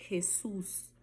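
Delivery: Jesus whispered, rasping J. Shown as a demonstration. Teacher whispering Jesus to show the J. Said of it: "sempre o J terá som de R".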